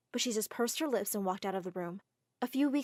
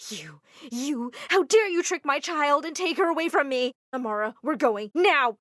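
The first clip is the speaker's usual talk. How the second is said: furious mother; 4 semitones higher, 7 dB louder than usual. Acted. Mama confronts Armitage, drags daughter.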